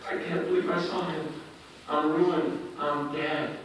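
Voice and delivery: hushed, halting realisation; acted quiet despair with pauses; stunned awe. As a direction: drop to a soft voice, as if shaken. Isaiah stunned after seeing God.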